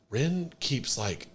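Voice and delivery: slow, hesitant school principal; principal's delivery. Retold or imitated. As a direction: lightly imitate a principal picking words slowly. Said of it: "that's how this principal said it".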